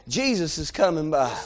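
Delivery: low and soft, under the breath; hushed tip-off. Acted. Somebody telling blind men who is coming, hushed. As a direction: drop right down to pass on quiet news.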